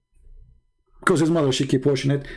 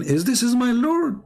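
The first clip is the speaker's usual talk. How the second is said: a slow, raised, mocking "is this my Lord"; mocking question; 5 semitones higher than usual. Host mocking the caller's interpretation, slow and sarcastic. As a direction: parody the caller's reading. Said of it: "He is saying".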